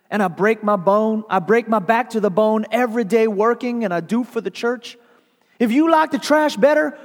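high, loud furious tirade; angry rant. Acted. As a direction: hurl the grievance upward, furious. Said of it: "she growled".

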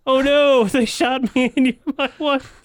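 loud, high dying gasp; overacted death scene. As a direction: ham up a dying father. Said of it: "pretend to die or something".

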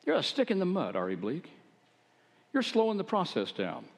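put-on a touch of impatient grumbling at the old farmer; mock irritation. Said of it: "at first I was irritated".

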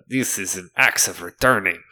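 shopkeeper's fake French accent; horrible French accent. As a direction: show off the wares in bad French accent. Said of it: "With this horrible French accent".

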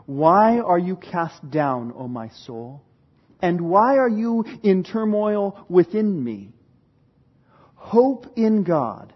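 slow, prayerful reading of the psalm; psalm recitation. Acted. Preacher reciting Psalm forty-three, prayerful reading. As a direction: read it as a heartfelt prayer. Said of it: "Psalm forty-three finishes with".

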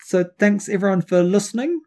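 New Zealand vowels in listening; Kiwi accent. Real, not acted. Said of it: "your Kiwi accent is like".

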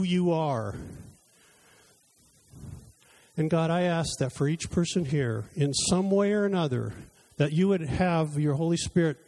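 fervent pastoral prayer; closing prayer. Acted. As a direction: pray over the people, unhurried. Closing prayer over the congregation.

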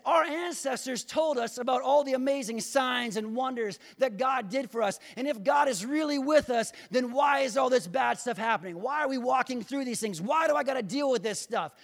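high, insistent complaint; complaining. Acted. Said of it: "And he's complaining".

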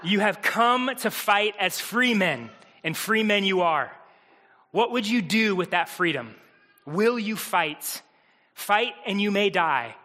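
put-on a mild Braveheart rallying cry without the accent; rally the troops, lightly; rousing battle speech. Mel Gibson's speech to the Scottish armies, mildly rousing. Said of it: "he gives this rousing speech".

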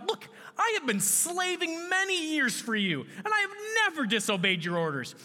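high, indignant complaint; angry older son. Acted. Older son pleading his grievance to his father, angry. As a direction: protest to your father with heavy emphasis. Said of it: "Then he became angry".

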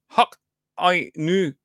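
halting Scottish try-out; attempted Scottish accent. Shown as a demonstration. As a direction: feel out Scottish vowels slowly. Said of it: "I can't do Scottish".

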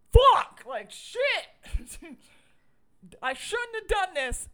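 high, loud panicked swearing; panicked outburst. Retold or imitated. Loretta waking up regretful, panicked loud cursing. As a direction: blurt it out in shocked regret. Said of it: "Loretta wakes up the next morning and is like".

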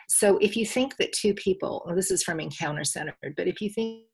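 choppy call audio, words dropping; bad connection breaking up; cutting out. Real, not acted. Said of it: "cutting out a little bit".

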